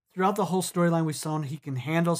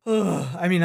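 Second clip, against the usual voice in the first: dramatic sigh; 2 semitones higher, 4 dB louder than usual. Real, not acted. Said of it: "You say it with a big sigh".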